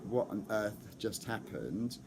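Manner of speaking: slow, stunned zombie-like daze; dazed zombie. Retold or imitated. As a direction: drag it out like a shell-shocked fan. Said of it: "They're the zombies".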